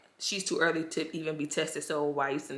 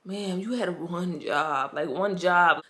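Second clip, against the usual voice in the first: slow, exasperated "you had one job"; 3 dB louder, much slower than usual. Retold or imitated. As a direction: spell out her failure slowly. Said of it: "And I'm just like".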